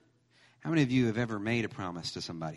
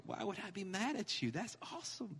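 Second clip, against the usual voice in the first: reassuring dad; 9 semitones higher, 10 dB quieter than usual. Retold or imitated. Dad reassuring upset daughter, acted.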